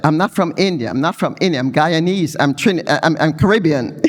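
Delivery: mock protest from an offended patient; patient insisting he is Caribbean, not Indian, in mock upset. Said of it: "And he got very upset".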